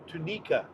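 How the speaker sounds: "Tunica" said too-NEE-ka; Spanish pronunciation. Shown as a demonstration. Hispanic driver reads the town name, "Tunica" as too-NEE-ka. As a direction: say "Tunica" with the i as a long ee. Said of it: "I is pronounced E in Spanish".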